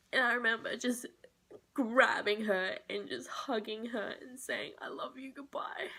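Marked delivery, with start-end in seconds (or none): 4.8-5.9 much softer, half-whispered farewell; tearful goodbye. Real, not acted. Saying goodbye to her dying dog, softer and half-whispered. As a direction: breathe a last goodbye, barely voiced.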